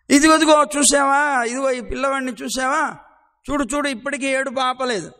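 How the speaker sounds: put-on agitated neighbour pointing at a crying baby; urgent gopi. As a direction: make Yashoda look now.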